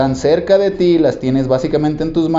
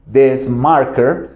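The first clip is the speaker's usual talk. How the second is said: "this marker" said very slowly, pointing out; slow demonstration; much slower than usual. Shown as a demonstration. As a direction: show the marker slowly as you say it. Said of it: "demostrándote este marcador". (despacio, señalando el marcador)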